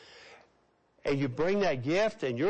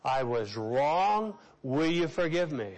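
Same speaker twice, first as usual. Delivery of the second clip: slow unison confession; slower than usual. Shown as a demonstration. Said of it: "Say that with me".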